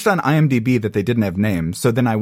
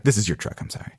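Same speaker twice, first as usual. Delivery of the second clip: much softer, fading timid apology; meek apology; 5 semitones lower, 7 dB quieter, faster than usual. Retold or imitated. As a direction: mutter it sheepishly to the man. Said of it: "I'm immediately like".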